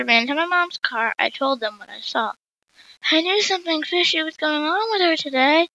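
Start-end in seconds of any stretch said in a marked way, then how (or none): 3.1-5.7 higher mock yell; a hint of panting yell; mild mock yell; yelled, out of breath. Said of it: "Jane yelled while catching her breath".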